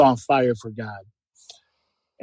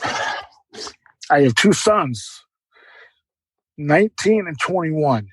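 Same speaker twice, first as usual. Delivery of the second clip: choked up; much slower than usual. Real, not acted. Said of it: "I get really emotional".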